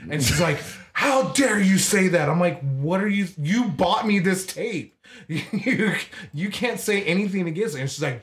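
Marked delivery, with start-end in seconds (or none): 0.9-2.3 higher-pitched mock outrage; scandalized mom. Mom scolding, retold quarrel. 2.6-7.8 high, protesting retort; indignant kid. Retold or imitated. Kid arguing back, retold.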